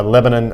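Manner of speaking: "Lebanon" said the Southern way, with a weak last syllable; local pronunciation. Real, not acted. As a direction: say "Lebanon" as LEB-uh-nun. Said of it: "correct pronunciation of Lebanon".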